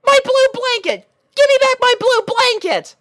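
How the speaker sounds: a little dragon crying out for his blanket; high-pitched shout. Acted. Spike shouts for his blanket, very high and loud. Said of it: "shouted Spike in a high-pitched voice".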